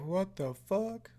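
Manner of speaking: slow, high, softly drawn-out bafflement; baffled disbelief. Acted. Viewer voices the husband's reaction, baffled disbelief.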